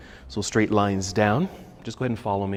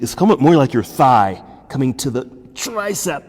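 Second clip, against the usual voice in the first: straining; 3 semitones higher, 8 dB louder than usual. Real, not acted. Strained effort in a hard pose.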